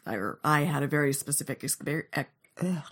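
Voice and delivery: stumbling over words with a head cold; tongue-tied, mouth not cooperating; mouth not working. Real, not acted. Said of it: "sorry, cold and my mouth doesn't work apparently".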